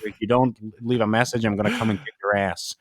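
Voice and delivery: a touch of flat, weary, slowed delivery; despondent. Retold or imitated. Nydia recording a fan's voicemail, mildly despondent and tired. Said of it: "she just seemed so, like, despondent".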